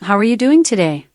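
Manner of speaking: lightly British-accented polite question. Shown as a demonstration. Assistant giving the host accent samples, British accent. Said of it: "British accent".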